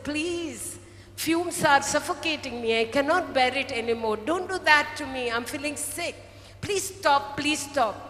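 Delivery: pleading cup. Retold or imitated. The cup begging the master to stop, mildly pleading. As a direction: beg with a touch of distress. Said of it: "the cup spoke to the master".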